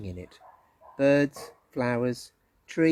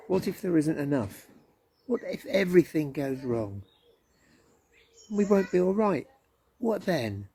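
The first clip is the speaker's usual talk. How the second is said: worried voices; 4 semitones higher than usual. Acted. Narrator voices the worried crowd.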